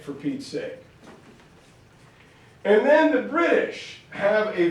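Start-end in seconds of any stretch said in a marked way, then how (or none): 0.0-0.8 indignant Indian objector. Retold or imitated. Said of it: "Others said".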